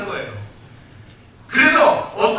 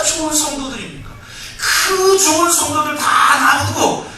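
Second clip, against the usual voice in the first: pleading complaint to God; 3 semitones higher than usual. Retold or imitated. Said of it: "따지면서 밤새 막 그냥 울부짖으면서".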